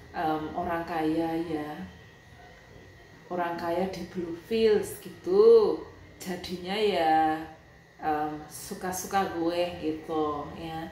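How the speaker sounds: slow, sneering drawl about the rich; mock a careless rich woman, slowly; sarcastic mockery. Telling the doctor's sister that rich folk do as they please, in slow sarcasm. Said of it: "aku tuh sampai bilang gini".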